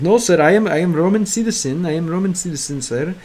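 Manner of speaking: put-on a light Slavic accent, proud and insistent; mock Slavic accent. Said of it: "really Russian accent when they speak Romanian".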